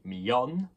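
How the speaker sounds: "millón" with the last syllable stressed, mi-YON. Shown as a demonstration. Teacher showing what the accent means, final-syllable stress. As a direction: land on the "ón" of "millón", lifting it at the end. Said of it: "the accent on the O, of course, means a stress".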